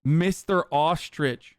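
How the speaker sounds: slow, relishing repeat of the insult; slow mock-solemn quote; savoring quote. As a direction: draw out each word, delighted. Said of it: "My man said".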